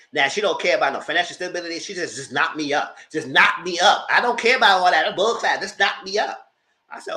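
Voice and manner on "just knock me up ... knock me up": hammed-up, impatient demand; pushy girlfriend impression, building louder; mock insistence. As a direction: imitate her brushing off all objections. Mimics her insisting on a baby.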